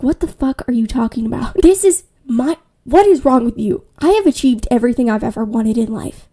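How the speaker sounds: loud, indignant acted rant; furious bride losing patience; exasperated outburst. Acted quarrel, bride blows up.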